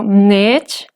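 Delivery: rising-tone "nech". Shown as a demonstration. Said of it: "Si tenemos esta secuencia dentro de una palabra".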